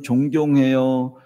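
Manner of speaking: slow, savoured 존경해요; slow tender 존경해요; echoed tenderly. Shown as a demonstration. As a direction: linger on 존경해요 as if hearing it again. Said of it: "자녀들에게 그런".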